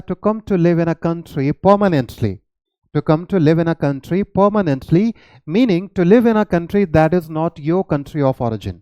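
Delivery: slow, clear definition read aloud; slow dictation. Shown as a demonstration. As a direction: spell the meaning out slowly for students. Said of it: "teacher reads definition slowly". (धीरे-धीरे परिभाषा बोलना)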